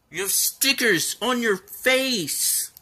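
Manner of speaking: high, slow doting voice; high playful pet talk; baby talk. Pretend. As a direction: coo at the dog.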